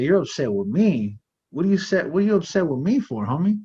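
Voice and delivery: mock-indignant questioning, pitch swooping up; acting out a puzzled, challenging comeback; retold incredulity. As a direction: throw the question back in disbelief. Retells his startled comeback to cellmate.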